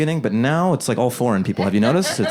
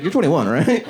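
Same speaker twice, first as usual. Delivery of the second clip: 1 mocking cashier; 5 semitones higher than usual. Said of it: "That's your crack team I D check".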